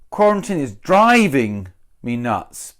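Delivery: driving leaned on, nuts let go; stress on driving. Shown as a demonstration. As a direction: hit driving instead of nuts. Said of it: "that doesn't feel like the best way".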